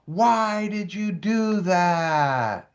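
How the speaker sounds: drawn-out mock scolding question; mock professional adult. Adult confronting a teen after a stunt, mock professional. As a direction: stretch it out slowly like an appalled adult. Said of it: "in a professional manner".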